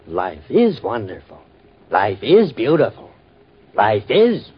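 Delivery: mocking echo. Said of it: "mocking the radio line".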